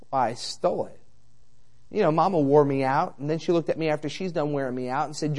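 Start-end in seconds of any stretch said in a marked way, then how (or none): 0.1-1.0 put-on softer, small guilty boy voice; a caught boy admitting the theft to mom, meek and soft; sheepish confession. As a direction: confess it meekly, head down.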